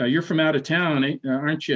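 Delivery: lightly imitated New England accent; a hint of New England local. Coffee shop local questions a stranger, light New England accent. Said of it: "He had that New England accent".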